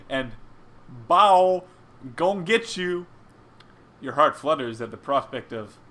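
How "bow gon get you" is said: put-on loud, higher toddler-like taunt; playful baby fluffy cry. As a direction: imitate a baby creature playing chase. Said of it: "Cries of".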